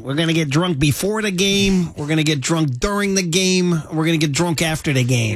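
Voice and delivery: Milwaukee Midwest accent, beer-fan chant; sing-song Midwest drinking slogan. Shown as a demonstration. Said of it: "you'd have to say in a Midwest accent".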